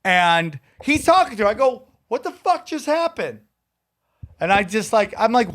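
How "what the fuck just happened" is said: high, softer incredulous question; mock-baffled, pitched up and hushed; retold bewilderment. Teller relives finding a stranger with the girl, bewildered.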